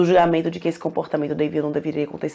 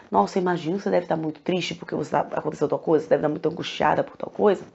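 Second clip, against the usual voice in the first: gentle empathetic naming; 4 semitones lower, 6 dB quieter, faster than usual. Shown as a demonstration. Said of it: "na hora que você fala".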